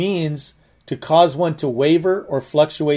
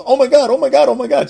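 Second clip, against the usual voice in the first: high, loud imitated panic, easing off; hammed-up oh my God, fading down; panicked wife; 9 semitones higher, 5 dB louder, faster than usual. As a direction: mimic the wife's flustered panic.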